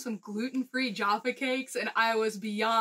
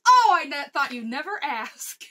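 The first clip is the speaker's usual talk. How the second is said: mock surprised old lady; 3 semitones higher, 6 dB louder than usual. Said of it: "So then I asked one more time".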